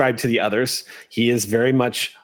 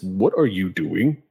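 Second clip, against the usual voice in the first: suit of armor speaking; 5 semitones lower than usual. A narrator's reading. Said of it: "one of the suits of armor says".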